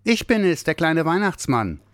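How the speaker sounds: put-on high, bright child voice; high excited little Santa; eager little Santa. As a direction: announce himself eagerly. Little Santa answers the bear.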